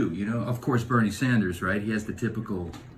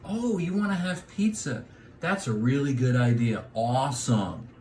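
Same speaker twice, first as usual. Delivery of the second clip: cheery Californian; 4 dB quieter than usual. Retold or imitated. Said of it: "California, we'd say".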